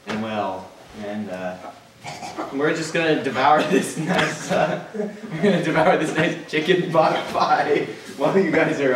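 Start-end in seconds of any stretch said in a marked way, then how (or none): 2.5-8.9 chuckling through the words; laughing. Real, not acted. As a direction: giggle while you say it. Laughing while announcing eating.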